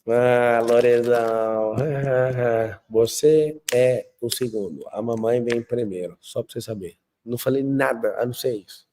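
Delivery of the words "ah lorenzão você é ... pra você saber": slow, drawn-out coo to a newborn; cooing to baby. Retold or imitated. Father holding his newborn son, slow and tender. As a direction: croon it slowly to the baby in your arms. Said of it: "catei eles no colo".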